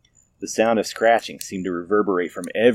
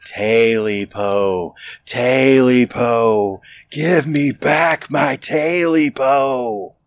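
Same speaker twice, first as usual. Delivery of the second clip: slow, drawn-out, rising creature wail; the creature closing in, demanding; demanding creature moan; 4 semitones higher, 3 dB louder, much slower than usual. A narrator's reading. Creature demanding its tail back, slow rising wail. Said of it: "the voice grew louder".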